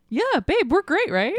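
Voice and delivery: high, chirpy mock reassurance; oblivious husband. Clueless husband checking with his wife, hammed-up high cheer. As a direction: chirp it high, blind to any trouble. Improvised skit as oblivious Hutter.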